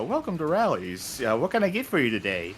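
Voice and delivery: lightly imitated robot voice; a hint of a drive-thru robot, polite and even. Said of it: "you just get a robot voice saying".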